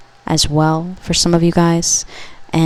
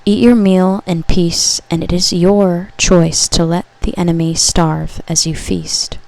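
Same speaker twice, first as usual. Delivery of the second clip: louder, slow, solemn message read; channeled message reading; 4 dB louder, slower than usual. Acted. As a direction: read it like a prophecy to the viewer.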